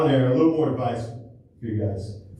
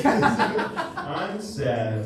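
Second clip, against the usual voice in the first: a whiny, mopey "I'm sad"; mock her sulk with a pouty whine; lightly voiced sulky girlfriend. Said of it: "She hates when I do that voice".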